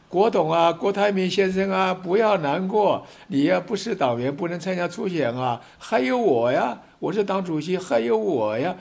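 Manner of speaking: lightly voiced soothing chairman reassuring a disappointed tycoon; KMT chairman consoling. Party chairman comforting Terry Gou, lightly mock-soothing. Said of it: "吴敦义说".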